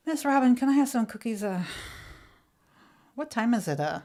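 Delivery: imitated boy tacking "uh" onto "cookies" and "it"; extra syllable at sentence end. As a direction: end each question on a stray "uh". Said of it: "put an extra syllable".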